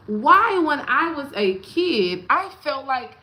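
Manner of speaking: high, loud cry of why; overwhelmed by the song; loud outcry. Real, not acted. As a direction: call it out with feeling. Emotional outburst over song.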